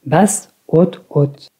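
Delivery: "basse" low, then "haute, haute" held up; low-high-high pitch pattern. Shown as a demonstration. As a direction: recite "basse, haute, haute" stepping up after the first word. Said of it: "On a une prononciation".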